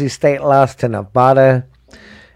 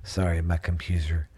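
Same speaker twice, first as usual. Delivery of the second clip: dry mouth mumble; 7 semitones lower, 13 dB quieter than usual. Real, not acted. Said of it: "I can't even talk".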